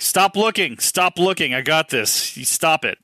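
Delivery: high, pushy stop it; urgent hushing. Retold or imitated. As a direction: hurry her off, insistent. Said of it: "Like, like".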